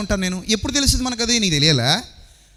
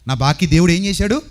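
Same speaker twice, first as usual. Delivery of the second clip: lower, relieved "అమ్మయ్యా"; happy relief, voiced lower; relieved sigh of joy; 5 semitones lower than usual. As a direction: breathe out relief. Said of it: "అది నాకు ఎప్పుడు ఉంటుంది".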